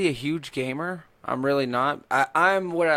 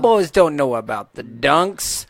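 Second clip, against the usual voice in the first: goofy character voice; 5 semitones higher, 5 dB louder, slower than usual. Retold or imitated. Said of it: "mimicking the gamer character voice".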